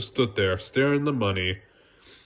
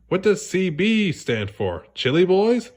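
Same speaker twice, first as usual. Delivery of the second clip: eager SpongeBob; 8 semitones higher, 3 dB louder than usual. Acted.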